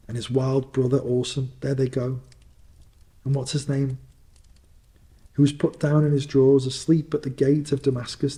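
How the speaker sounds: put-on gleefully pointing out old favourites; excited. Scrooge excitedly recalling storybook figures.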